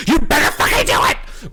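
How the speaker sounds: sudden high, loud screech; mock freak-out. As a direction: explode at him, hammed-up and high. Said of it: "she literally freaks out at him".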